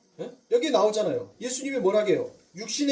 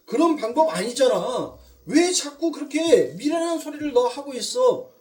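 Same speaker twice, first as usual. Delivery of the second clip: higher, louder exasperated rebuke; acted scolding; 5 semitones higher, 5 dB louder than usual. Peter tells Jesus his way is wrong, acted scolding. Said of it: "그렇게 예수에게 꾸짖으면서".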